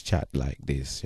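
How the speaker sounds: put-on Jamaican yard man accent. Shown as a demonstration. Showing what the women want him to do, Jamaican accent. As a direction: switch into broad Jamaican patois. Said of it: "in a Jamaican yard man accent".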